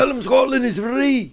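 high-pitched mock battle cry; William Wallace. Quoting Braveheart to friends, mock battle cry. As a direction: draw it out like a rousing Scottish rebel.

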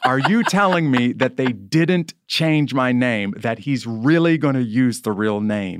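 can't-believe-it, emphatic and slow; incredulous protest. Retold or imitated. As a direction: act out your stunned reaction on that call. Retells his incredulous phone reaction.

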